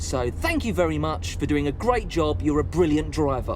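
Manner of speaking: sarcastic. Acted. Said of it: "That's sarcasm!".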